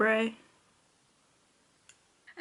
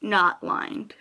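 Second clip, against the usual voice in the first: talking while lining lips; while putting on lipstick. Real, not acted. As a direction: speak mid lip liner, lips stretched. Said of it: "it's really hard to talk and do lip liner".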